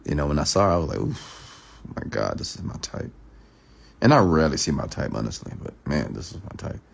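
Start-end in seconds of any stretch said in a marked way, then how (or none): 1.0-3.1 hushed, breathless whisper; whispered awe. Retold or imitated. Man spotting a woman at a club, awed whisper. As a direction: whisper it under your breath. Whispered inner reaction on seeing her.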